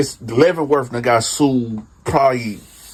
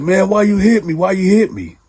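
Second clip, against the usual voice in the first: mock whine; 10 semitones higher than usual. Cellmate complains after a kick.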